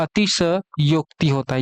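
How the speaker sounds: अतिशयोक्ति drawn out, full स; slow careful demo. Shown as a demonstration. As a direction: stretch अतिशयोक्ति so students hear the स. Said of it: "स में पूरा मात्रा रहता है". (अतिशयोक्ति धीरे, पूरा स)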